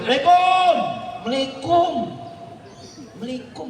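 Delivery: mock a half-hearted answer; mumbled reply. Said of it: "salamnya dijawab". (tiruan jawaban salam asal-asalan)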